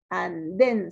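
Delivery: "andén" split as an, DEN; stress on last syllable. Shown as a demonstration. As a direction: separate "andén" and lean on DEN. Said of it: "sílaba tónica".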